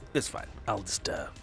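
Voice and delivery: ordinary talk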